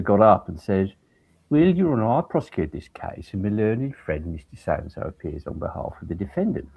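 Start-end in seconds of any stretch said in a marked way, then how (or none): 1.5-6.7 put-on Brummie accent. Prosecutor opening the case to the judge, Brummie accent. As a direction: imitate a Brummie barrister addressing the judge. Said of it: "putting on a Brummie accent".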